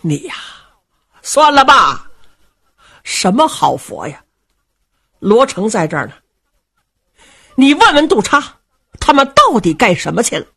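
put-on old prince brushing her off with a dry laugh in the voice; a cold laugh. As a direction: scoff at the old wife, half laughing. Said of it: "罗毅冷笑了一声". (罗毅冷笑着对老伴儿说)

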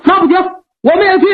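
a cocky warrior calling his bluff; brash Meng Liang. Acted.

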